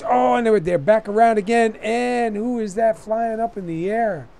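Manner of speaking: loud, high alarmed race call; excited shout. Real, not acted. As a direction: yell as a car goes airborne. Wreck happening live on track.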